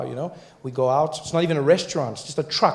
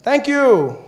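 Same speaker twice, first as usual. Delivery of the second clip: mock loud thanks; 10 semitones higher, 6 dB louder than usual. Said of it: "I said".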